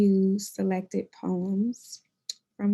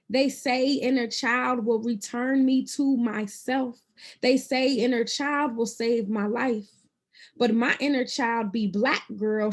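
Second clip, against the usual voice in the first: spoken-word delivery, lilting over each phrase; poetry reading; 3 semitones higher than usual. Acted. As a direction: perform it as a personal poem with emphatic phrasing. Reads second poem aloud.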